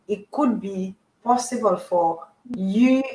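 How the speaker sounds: choppy broken-up audio; connection breaking up. Real, not acted. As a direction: voice cutting in and out on a bad line. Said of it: "Sorry, you're cutting out".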